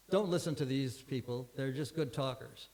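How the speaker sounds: a light Cockney accent, retold; dismissive Cockney neighbour. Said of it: "in his very Cockney accent".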